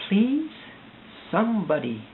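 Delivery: begging anyone listening for help; desperate plea. Real, not acted. To strangers watching online, a desperate high plea.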